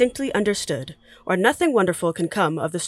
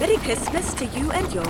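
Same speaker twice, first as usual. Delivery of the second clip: higher cheerful townsfolk voices; festive greeting; 6 semitones higher than usual. Acted. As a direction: call out good wishes. Street greetings exchanged.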